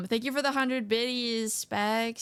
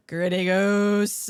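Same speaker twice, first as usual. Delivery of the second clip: excited; 6 dB louder, much slower than usual. Real, not acted. Gasps at the goose reward.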